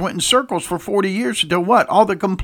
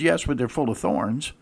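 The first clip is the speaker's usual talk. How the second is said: grumbling; 6 semitones lower, 6 dB quieter than usual. Retold or imitated. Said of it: "the other says".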